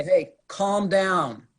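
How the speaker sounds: a cop snapping calm down at an upset person; sharp calm down. Shown as a demonstration. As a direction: bark a drawn-out order to calm down. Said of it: "I don't even care how you say it".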